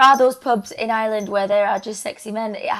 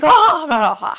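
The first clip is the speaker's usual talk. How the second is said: mimicking repeated words; 6 semitones higher, 5 dB louder than usual. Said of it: "I just repeat words and I'm like".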